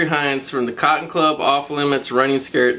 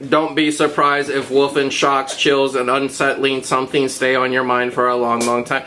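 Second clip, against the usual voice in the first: robot voice; 3 semitones lower than usual. Pretend. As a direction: read it like a monotone robot. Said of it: "I'm gonna read this like a robot".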